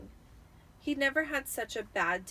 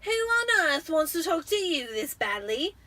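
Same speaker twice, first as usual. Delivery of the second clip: put-on higher, louder amazed boy; amazed Dudley; 7 semitones higher, 8 dB louder than usual. A narrator's reading. Dudley asking Harry in amazement, loud and high. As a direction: gape at it in wonder. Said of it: "Dudley asked Harry in amazement".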